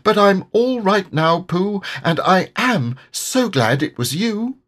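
high, piping, loud small-creature voice; squeaky little character; Piglet's little voice. A narrator's reading. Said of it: "said Piglet".

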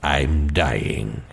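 slow, low gentle reassurance; reassuring. Acted. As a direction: soothe him about dying. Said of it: "he hastened to add reassuringly".

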